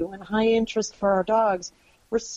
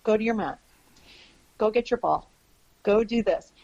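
calm cue to dog. Retold or imitated. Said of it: "and I'd say".

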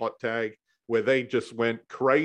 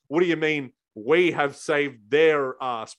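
imitating Vince; 2 semitones higher, 4 dB louder, slower than usual. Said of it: "And then he said".

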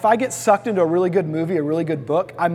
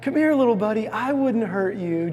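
small weak coaxing; 3 semitones higher than usual. Retold or imitated. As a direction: play it small and harmless to lure the tiger. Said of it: "makes himself just kinda small and weak and simple".

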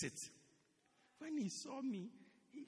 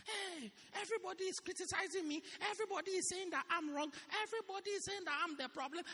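complaining church member; 7 semitones higher than usual. Retold or imitated. Whining quoted person complaining.

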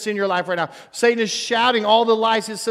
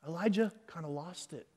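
hushed gossip tone; 14 dB quieter than usual. Retold or imitated. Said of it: "We would say".

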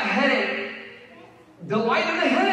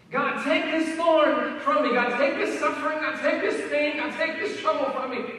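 pleading prayer; 5 semitones higher than usual. Pretend. Pleading prayer voiced for listeners.

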